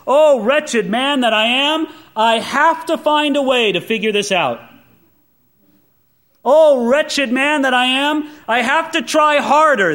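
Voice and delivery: hammed-up lament of trying harder; self-reliant striver. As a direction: play the Christian gritting it out alone. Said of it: "it goes like this".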